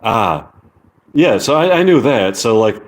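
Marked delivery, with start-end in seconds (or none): 0.0-0.5 "Ah" as an open R-less vowel; British er sound. Shown as a demonstration. Showing the English sound for er, open "Ah". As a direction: let an open "Ah" out, no R. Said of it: "er in American is ah in English".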